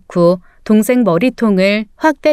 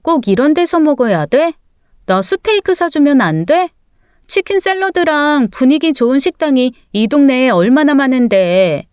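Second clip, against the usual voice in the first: higher-pitched whiny complaint; grumbling; 3 semitones higher than usual. Acted. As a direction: grumble like a put-out younger sister. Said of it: "막내 여동생이 투덜대는 거예요". (투덜대는 말투)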